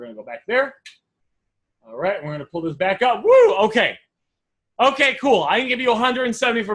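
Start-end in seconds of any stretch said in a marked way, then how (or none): 3.2-3.5 sudden bright "woo" jumping up; high, loud whoop. Real, not acted. Coach pulling the screen back up for viewers, high whoop. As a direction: let out a quick high whoop.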